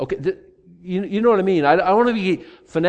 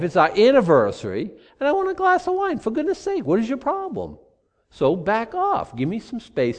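indignant, higher pitched self-justifying protest; defensive wine drinker; 5 semitones higher than usual. Pretend. Pastor playing a defensive drinker to an imagined critic, indignant. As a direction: whine that it's your anniversary and you deserve wine.

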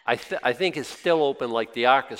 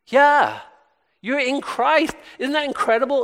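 loud, high burst of amazement; excited exclamation; 12 semitones higher, 8 dB louder than usual. Real, not acted. Preacher marvels with the congregation at being in Christ, excited and loud. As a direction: exult at full voice, pitched way up.

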